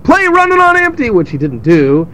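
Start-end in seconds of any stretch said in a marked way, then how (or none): 0.0-1.1 very high mock audience yell; crowd yelling requests. Fans demanding a song from a singer, yelling. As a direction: call it out like a concert crowd. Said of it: "everyone's like".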